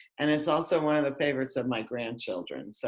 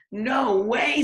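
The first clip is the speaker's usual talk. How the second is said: raised, high no way; refusing flatly; 9 semitones higher, 4 dB louder than usual. Acted. Farmer refusing the cows' demand, raised and high. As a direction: slam the door on the idea. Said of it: "said Farmer Brown".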